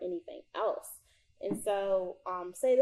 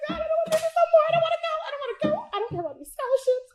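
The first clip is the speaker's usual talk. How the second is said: much higher, louder desperate plea; retold crying prayer; 7 dB louder, much faster than usual. Retelling her breakdown before Spain, desperate and tearful. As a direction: cry out to God, worn out. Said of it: "I said".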